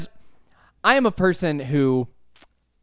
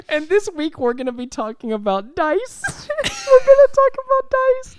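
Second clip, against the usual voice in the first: higher, laughing and slowing down; laughing intro; 4 dB louder, slower than usual. Real, not acted. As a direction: announce the topic, cracking up. Show intro through laughter.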